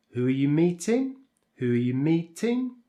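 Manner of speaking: "meeting" as the last content word carries the tune; falling intonation. Shown as a demonstration. Teacher models asking for new information, falling intonation. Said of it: "we use a falling intonation on the final content".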